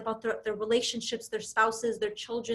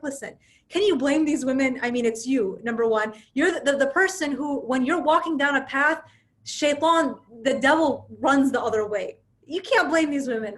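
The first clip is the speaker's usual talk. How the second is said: louder, insistent mock protest; mildly heated, emphatic justification; retold exasperation; 3 semitones higher, 5 dB louder than usual. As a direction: argue back as an exasperated man, in a storyteller's retelling. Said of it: "he's just enraged".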